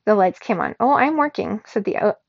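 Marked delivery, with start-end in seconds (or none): 0.8-1.6 high, loud gloating machine; loud and triumphant. A narrator's reading. AI gloating at rude human boy, loud and triumphant. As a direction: crow it like a smug gadget. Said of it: "loud and triumphant".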